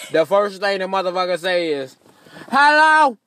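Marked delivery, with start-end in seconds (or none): 2.5-3.2 drive-thru worker. Retold or imitated. Drive-thru worker answers late.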